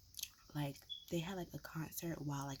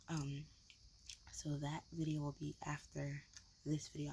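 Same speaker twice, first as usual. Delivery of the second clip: ASMR low talking. Real, not acted. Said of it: "a low talking whisper".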